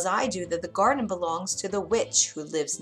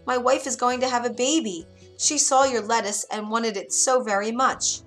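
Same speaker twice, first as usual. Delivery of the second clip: higher, pressing appeal; earnest begging, pitch raised; pleading carpenter; 4 semitones higher, 4 dB louder than usual. Acted. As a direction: plead for your wife's sake. Carpenter begs the witch.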